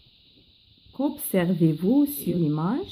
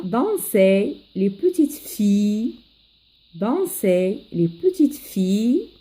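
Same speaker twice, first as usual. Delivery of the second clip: verse modelled line by line; poem recitation for learners. Acted. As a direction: teach a poem by careful recitation.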